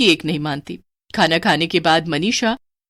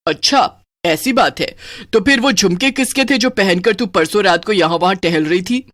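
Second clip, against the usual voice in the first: sly witch. Acted. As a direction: catch her lie as the witch. (ताना मारती चुड़ैल)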